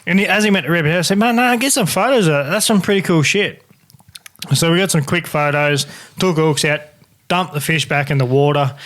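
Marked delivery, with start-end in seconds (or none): 1.2-3.6 excited. Retold or imitated. Fish swallowed the lure.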